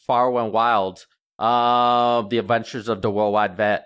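put-on childhood speech impediment, R's turned to W's. Shown as a demonstration. Vet showing how he said his book title at six, R's as W's. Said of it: "I started to say W's".

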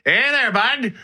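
put-on high, fast Canadian hockey bro accent. Co-host mimics Americans faking Canadian slang, hammed-up hockey accent. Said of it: "young Americans are saying things like".

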